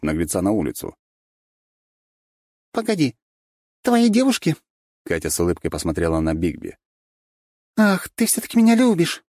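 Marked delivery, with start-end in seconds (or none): 2.7-4.6 high, rising surprised female voice; surprised Katya. A narrator's reading. Katya surprised at being called Bigby's girl. 7.8-9.2 high, loud, breathless gushing; gushing Katya. A narrator's reading. Katya pretending to swoon over Bigby.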